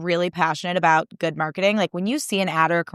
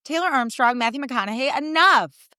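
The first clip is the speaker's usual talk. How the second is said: high-pitched dramatic protest; theatrically fed up; exasperated plea; 5 semitones higher than usual. Retold or imitated. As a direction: build to a high, falling last word. Dramatic retold plea to stop.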